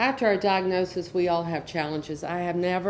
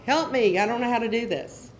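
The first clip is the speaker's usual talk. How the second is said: mock scream for help; 4 semitones higher, 5 dB louder than usual. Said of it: "I'm screaming for my child".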